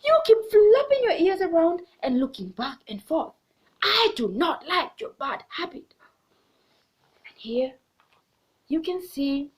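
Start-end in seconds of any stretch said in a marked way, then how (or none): 0.0-5.9 a mildly raised, scolding monkey; mock scolding. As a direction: tell him off, a bit louder. Monkey scolds rabbit in story.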